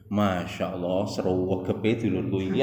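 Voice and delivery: mock admiration, understated; ironic praise. Shown as a demonstration. To a brother two hours late, ironic praise. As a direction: praise the latecomer as a dig. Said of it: "Lah niki jenenge gaya bahasa ironi".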